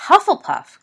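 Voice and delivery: loud, high burst of indignation; outraged cry. A narrator's reading. Sirius hears his friend insulted, outraged cry. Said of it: "cried Sirius, outraged".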